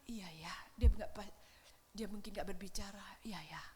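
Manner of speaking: soft, hushed, low inner voice; Jeremiah's heart whispering; whispered inner thought. Acted. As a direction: think it to yourself under your breath.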